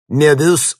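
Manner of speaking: loud, high barked name; barked shout. A narrator's reading. Grekov orders Möbius to stop Vinnik, barked loud. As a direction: bark the name across the room. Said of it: "гаркнул Греков".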